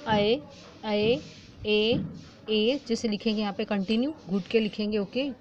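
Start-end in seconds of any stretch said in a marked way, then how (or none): 0.1-2.0 ऐ twice as an open "ae", then ए as a clean "e"; vowel demo. Shown as a demonstration. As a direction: sound out ऐ, ऐ, then ए for the class. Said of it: "यहाँ पे अ पे ऐ".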